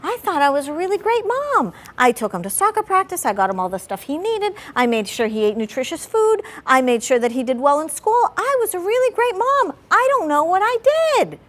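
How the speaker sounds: mock despairing client; distraught mother. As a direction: plead as a lost, hurt mother. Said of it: "come into my office and be like".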